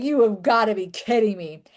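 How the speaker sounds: mock scornful, disbelieving chuckle, laughing scoff. Retelling how a conference visitor reacted to the book: imitating a laughing scoff. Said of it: "started laughing, like".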